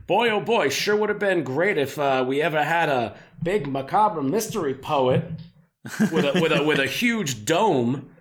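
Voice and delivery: put-on light old-timey radio announcer voice; hammed-up old-fashioned gee-whiz folksy voice. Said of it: "You doing your old-timey voice?".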